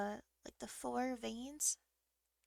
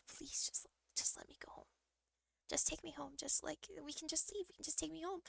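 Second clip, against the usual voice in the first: tearful pleading; 5 semitones higher, 5 dB quieter than usual. Retold or imitated. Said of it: "I'm starting to cry".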